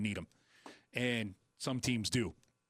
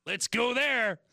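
excited; 9 semitones higher, 6 dB louder, slower than usual. Real, not acted. Excited host picking game.

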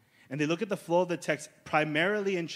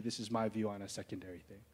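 mock teacher quote; 5 semitones lower, 11 dB quieter, faster than usual. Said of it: "an influential teacher told you".

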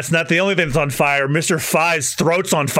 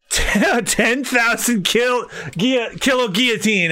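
slow attack call; 5 semitones higher, slower than usual. Acted. Villain attack name.

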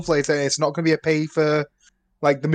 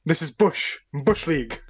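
hammed-up warm-up; 2 semitones higher than usual. Co-host warming up before recording, hammed-up. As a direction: belt out the diction drill.

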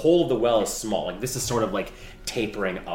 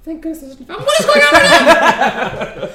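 high squeaky laughing little voice; squeaky rubber duck; 12 dB louder than usual. Acted. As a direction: squeak through the giggles. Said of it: "I don't like my voice like this".

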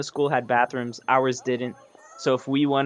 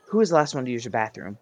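mock angry teacher; faster than usual. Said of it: "she came storming in and she goes".

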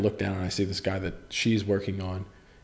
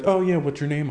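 awkward small talk; 6 semitones higher, 4 dB louder than usual. Retold or imitated.

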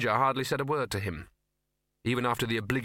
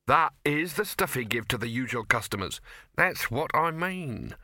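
troll voice; 3 semitones higher than usual. Acted. Detritus the troll speaking.

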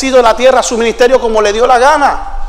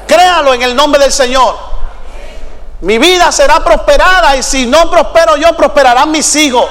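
raised-pitch, driving sermon cry; full-force preaching; 3 semitones higher than usual. Real, not acted. Preacher rallies the congregation to keep working, full-force preaching. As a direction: preach it out with ringing, insistent repetition.

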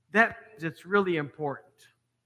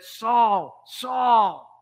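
calling out; 3 semitones higher, 5 dB louder than usual. Acted. Divine voice calling Saul.

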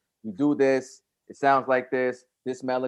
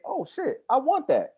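much higher, suddenly wowed shopper; excited consumer voice; 10 semitones higher, slower than usual. Retold or imitated. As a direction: act out a buyer who must have it. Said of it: "they're gonna say".

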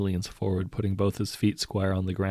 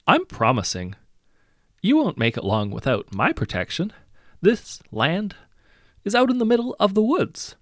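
higher, louder, gloating menace; sinister threat; 7 semitones higher, 5 dB louder than usual. A narrator's reading. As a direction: threaten the children with relish. Hero threatens the children.

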